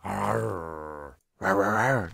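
low mock growling; low rawring noises; dog growl. Growling noises while coaxing a dog.

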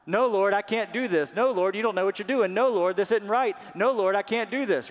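high, loud pleading refusals; protesting Moses. Acted. Preacher acting reluctant Moses refusing God, loud and high. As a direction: play Moses begging his way out. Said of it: "Moses was like".

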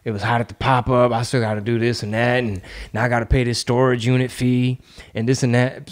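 low, weary-sounding mock grumble; mock complaining. Imagined poster griping on Twitter, mild mock complaining. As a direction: list petty troubles in a mild put-on moan. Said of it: "I was just complaining".

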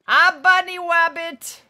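loud, drawn-out cartoony baby talk; playful cartoon baby talk. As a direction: say it slowly like a silly cartoon toddler. Playful cartoon mispronunciation of rabbit.

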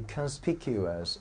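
conspicuous said slowly and carefully; stress demonstration. Shown as a demonstration. Teacher repeating the word for the class, slow, careful "conspicuous". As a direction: model "conspicuous" slowly so the stressed syllable is clear. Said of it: "来，注意重音位置啊".

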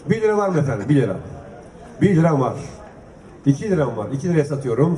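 brisk auction calling, price by price; auctioneer. Acted. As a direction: call out the bids like an auctioneer. S1 runs the auction calls. (mezat sunucusu gibi fiyat çağırma)

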